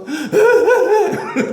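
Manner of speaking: high, loud burst of laughter; real amused laughter; laughing. Real, not acted. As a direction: break into a high laugh mid-story. Amused while retelling Augustine's conversion.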